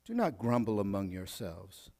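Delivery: low, soft echo of the line; soft repeat. Acted.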